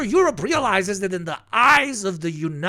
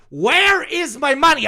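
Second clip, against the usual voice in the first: mock greedy Europe; 9 semitones higher than usual. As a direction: whine it like a greedy creditor. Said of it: "Europe is going".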